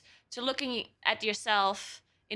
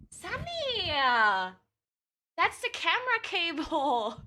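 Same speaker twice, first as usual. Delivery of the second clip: scolding shout; 6 semitones higher, slower than usual. Real, not acted. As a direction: yell at the cat to quit it. Cat chewing the camera cable.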